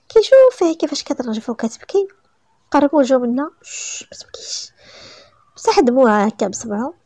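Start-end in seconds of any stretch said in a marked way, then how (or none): 3.6-4.7 slow voiceless whisper close to her. A narrator's reading. Man comforting the crying bride, slow whisper. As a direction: whisper her tears away.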